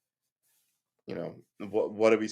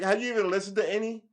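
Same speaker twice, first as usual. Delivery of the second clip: incredulous friends; 7 semitones higher than usual. Retold or imitated. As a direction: mimic friends challenging him, high and quick. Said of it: "They were like".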